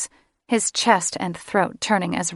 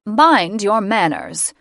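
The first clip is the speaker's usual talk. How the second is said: slow, firm scolding of a rude son; stern mother reprimand, a touch louder; 3 semitones higher, 6 dB louder, slower than usual. Acted. Mother scolding her son for rudeness, stern and slow. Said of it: "She reprimanded him".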